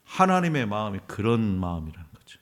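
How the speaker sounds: ordinary talk, nothing marked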